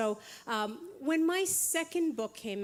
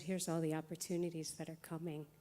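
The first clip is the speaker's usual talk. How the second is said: healer voice; 5 semitones lower than usual. Retold or imitated. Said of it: "healer voice".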